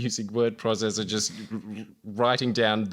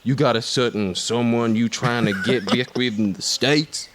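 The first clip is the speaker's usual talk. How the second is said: put-on Robert Downey Jr accent. Reading the campfire scene to an auditioning actor, in a put-on accent. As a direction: put on the Tropic Thunder soldier's accent. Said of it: "Can I do the accent of Robbie Downey Junior".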